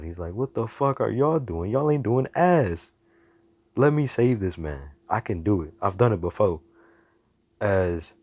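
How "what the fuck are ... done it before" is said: mock yell, raised in pitch more than volume; high, indignant protest, easing into insistence. Hero to the heroes telling him to stop, indignant yell. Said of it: "Izuku yells out loud".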